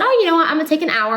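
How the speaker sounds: imitating herself deciding brightly; mock sudden idea. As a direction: replay the lightbulb moment, half-acted. Retelling her own sudden decision.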